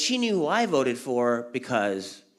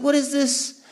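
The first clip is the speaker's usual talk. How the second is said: mock outrage; 11 semitones higher, 3 dB louder than usual. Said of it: "I was like".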